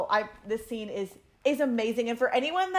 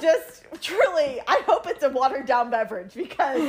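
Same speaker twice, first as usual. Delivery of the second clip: really choked up but amused; crying; 4 semitones higher than usual. Real, not acted. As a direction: laugh through your tears. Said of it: "I am, like".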